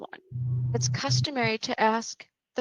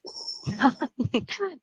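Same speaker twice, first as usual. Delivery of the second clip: short taunting villain laugh; mocking chuckle; 3 semitones higher than usual. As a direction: chuckle at a helpless victim. Villain laughs at her choking victim.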